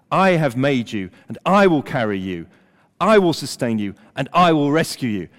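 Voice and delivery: God speaking, weighty and deliberate, leaning on each I; solemn, insistent divine declaration; emphatic scripture reading. Acted. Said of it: "Very emphatic".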